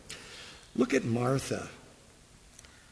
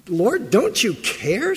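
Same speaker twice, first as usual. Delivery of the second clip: accusing; 6 semitones higher, 4 dB louder, slower than usual. Retold or imitated. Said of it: "she says".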